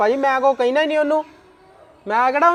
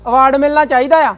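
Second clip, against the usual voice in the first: angry accusing; 5 dB louder than usual. Acted. Husband accuses in-laws in a quarrel.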